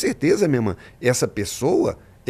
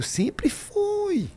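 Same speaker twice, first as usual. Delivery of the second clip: high unvoiced whisper. Real, not acted. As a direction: whisper it like a secret. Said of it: "sussurro enfático". (sussurrando "sempre foi")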